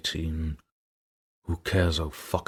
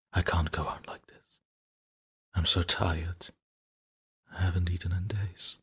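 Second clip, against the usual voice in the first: exhausted whisper. Acted. Exhausted diarist near breakdown.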